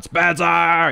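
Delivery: high-pitched imitated yell. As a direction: bellow the name like a frantic producer. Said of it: "I hear Seg yelling in the background".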